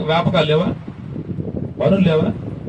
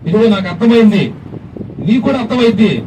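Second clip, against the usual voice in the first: loud calling out. Pretend. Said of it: "అని నువ్వు గట్టిగా పిలవగలవు".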